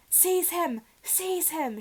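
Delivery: high, loud shrieked order; villain shrieking at his servant. Acted. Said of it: "shrieked Voldemort again".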